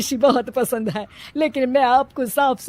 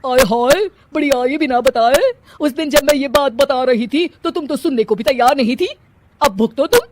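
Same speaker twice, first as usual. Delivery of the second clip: loud, scornful scolding; bride's mother hitting back at Kanchan, loud indignant scolding; indignant retort; 3 semitones higher, 5 dB louder than usual. Acted. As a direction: throw it back in her face.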